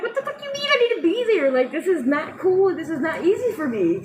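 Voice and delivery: high, fast indignant protest, retold; retold outburst. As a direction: fire back at the nurse in disbelief.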